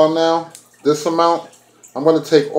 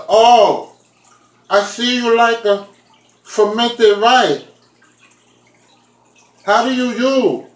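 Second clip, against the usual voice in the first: mock Asian accent; 7 semitones higher than usual. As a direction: imitate the Asian cashier with a playful high Asian accent. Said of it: "here goes my Asian accent".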